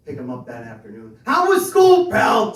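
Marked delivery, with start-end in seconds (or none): 1.3-2.5 high, loud chipper call; cheery dad greeting. Retold or imitated. Dad picking up son from school, high and chipper. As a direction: sing it out like an eager dad.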